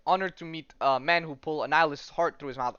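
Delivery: put-on Russian accent. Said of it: "it's in a Russian accent".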